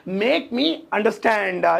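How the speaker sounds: very slow, word by word; slow teaching repeat; slow drill. Shown as a demonstration. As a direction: drag it out so students catch it. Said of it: "तो इसे English में बोलेंगे".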